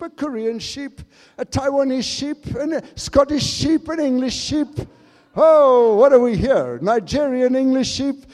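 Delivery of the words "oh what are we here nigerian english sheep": surprise. Real, not acted. Surprised aside to congregation.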